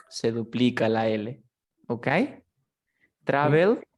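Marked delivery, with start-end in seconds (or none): 3.2-3.9 "Travel" stressed on TRA; first-syllable stress. Shown as a demonstration. Teacher demonstrates for student, "Travel" stressed on TRA. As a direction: punch the start of "Travel". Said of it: "la fuerza de voz está al inicio".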